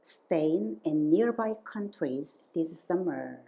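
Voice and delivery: very slow and clearly spaced; slow model sentence. Shown as a demonstration. Teacher models the shorter gonna sentence slowly. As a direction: say it slowly so learners can follow. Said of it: "조금 더 짧게".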